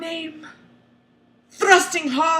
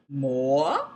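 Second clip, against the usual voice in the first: raw whisper; 10 semitones lower, 5 dB quieter than usual. A narrator's reading. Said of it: "he whispers, his voice raw".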